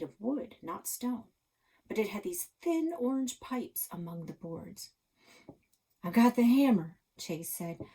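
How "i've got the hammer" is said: urgent. Acted. Chase urgent in danger.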